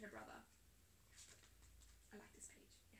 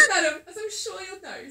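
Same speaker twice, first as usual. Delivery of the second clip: laughing through the mole's line, higher and louder; 8 semitones higher, 15 dB louder than usual. A narrator's reading. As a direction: mole addressing the ferret, laughing. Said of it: "said the mole".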